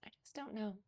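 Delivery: soft, high, timid voice; shy lady answering softly; tiny voice. A narrator's reading. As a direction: barely dare to say it. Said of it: "in a tiny voice".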